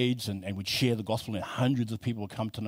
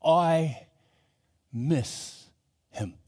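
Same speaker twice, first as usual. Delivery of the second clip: voice cracking; 3 semitones higher, much slower than usual. Retold or imitated. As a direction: voice breaking on the words. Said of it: "voice begin to crack".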